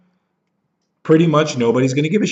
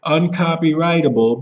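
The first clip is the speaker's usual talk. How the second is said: mocking know-it-all; 4 semitones higher than usual. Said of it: "people will say".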